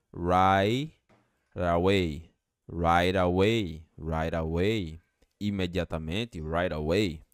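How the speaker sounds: right away slow, GH silent, T flapped; slow linked demo. Shown as a demonstration. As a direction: build up right then away slowly. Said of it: "esse G H não é pronunciado".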